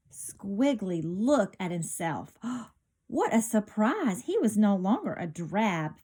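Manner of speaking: lively storybook read-aloud; bright picture-book narration; reading to children. A narrator's reading. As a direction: read it like storytime for little kids.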